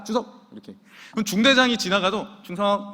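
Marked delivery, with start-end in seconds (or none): 0.0-0.2 offhand salute at ordinary volume; lazy, easygoing military greeting; sergeant's casual salute. Retold or imitated. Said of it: "자기 관등 성명도 안 돼". 2.4-2.9 offhand salute at ordinary volume; lazy, easygoing military greeting; sergeant's casual salute. Retold or imitated. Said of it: "이러면 중대장님이 봐줘요".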